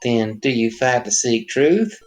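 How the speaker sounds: slow, solemn prophet voice; Jesus figure voice. Acted. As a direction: intone like a holy savior. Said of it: "Jesus figure".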